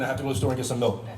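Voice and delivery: quick, lightly voiced Oliver Queen; Oliver Queen impression. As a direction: race through it as a hint of the hero. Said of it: "This is Oliver Queen doing".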